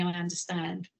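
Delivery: quiet, low "I understand". Shown as a demonstration. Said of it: "I've been bitten on many a time by saying".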